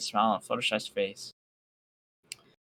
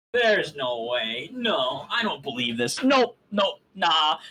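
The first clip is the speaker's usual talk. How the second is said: disbelieving mutter; slower than usual. Acted. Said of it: "I was muttering like a blithering idiot".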